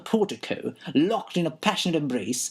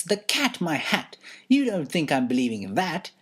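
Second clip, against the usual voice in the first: indignant shout. Acted. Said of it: "The lady shouts".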